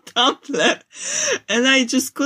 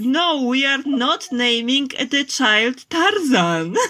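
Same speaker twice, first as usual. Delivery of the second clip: stern dad voice; 3 semitones higher, slower than usual. Retold or imitated. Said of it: "having a fight with my dad".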